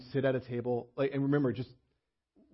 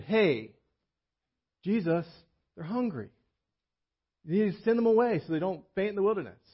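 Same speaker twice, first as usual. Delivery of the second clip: worried disciples; 7 semitones higher than usual. Retold or imitated. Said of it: "The disciples came up and said".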